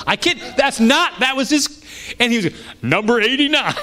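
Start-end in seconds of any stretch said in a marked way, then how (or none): 2.8-3.7 high-pitched mock list announcement; preacher calling a list. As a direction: imitate a teacher calling out the next point. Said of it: "he's just going through this list".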